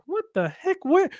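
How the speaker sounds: a kid whose friend likes the same crush, mock shocked. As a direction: play the betrayed teenager, caught off guard. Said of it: "And you're like".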